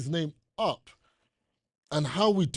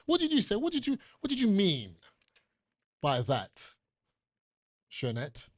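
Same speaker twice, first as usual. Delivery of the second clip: mock divine questioning; 3 semitones higher, 3 dB quieter than usual. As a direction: demand an answer, pitched up. Imitates God questioning him.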